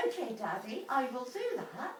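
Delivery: a quiet, obedient daughter; meek child reply. Retold or imitated. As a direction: answer meekly like a child. Retold meek reply to Dad.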